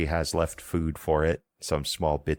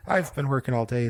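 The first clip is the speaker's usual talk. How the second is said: high, Irish-Scottish twang; old woman accent; 9 semitones higher than usual. Shown as a demonstration. GM restarting the old woman's line in her accent. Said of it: "doing the accent again".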